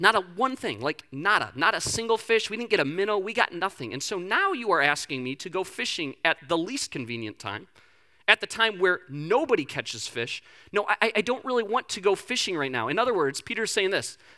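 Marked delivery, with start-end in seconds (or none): none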